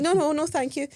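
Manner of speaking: high-pitched mock tourist refusal; tourist broken English. Tourist to foreign seller, imitated simplified high refusal. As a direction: exaggerate it for someone with little English. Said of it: "you speak broken English when you speak to other people".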